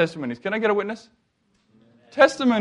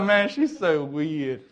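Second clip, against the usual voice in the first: slow, softer, half laughing; amused aside; 4 semitones lower, 5 dB quieter, slower than usual. Retold or imitated. The speaker thinking about the odd girl, slow amused aside. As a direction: mutter it fondly, with a laugh. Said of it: "I'm just like".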